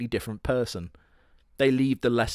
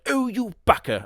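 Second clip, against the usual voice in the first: mock girly retort; 11 semitones higher, 3 dB louder than usual. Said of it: "she's like".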